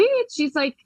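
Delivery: ordinary talk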